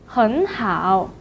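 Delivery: 很 rising before a low 好 in 很好; tone-change demo. Shown as a demonstration. Teacher introduces very good, second tone then third. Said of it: "should be changed to the second tone".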